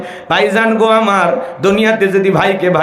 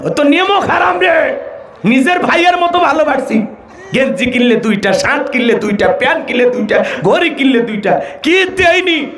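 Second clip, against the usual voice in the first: high indignant rant, a wronged friend; aggrieved friend; 6 semitones higher than usual. Acted. Snubbed friend to others, high hurt rant.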